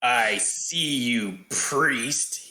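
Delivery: slow, drawn-out villain threat, no real yell; menacing villain voice at normal volume; Groomsh's taunting call. Acted. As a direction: draw out the taunt as a lurking monster. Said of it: "he yells out from within the cloud".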